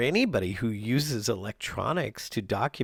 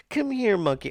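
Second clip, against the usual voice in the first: high, louder coaxing call; calling the cat; 11 semitones higher, 7 dB louder than usual. Real, not acted. Owner calls the cat Monkey, high and louder.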